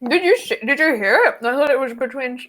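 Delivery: talking while chewing; mouth full. Real, not acted. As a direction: speak through a mouthful. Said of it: "speaking with my mouth full".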